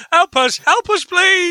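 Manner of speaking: high-pitched mock plea; hammed-up, cartoonish call for rescue; mock cry for help. Acting out the crashing Beatles' cry.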